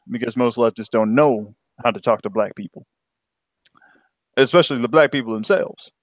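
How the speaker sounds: put-on African American accent; lightly voiced African American accent; black voice. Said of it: "I get my black voice in".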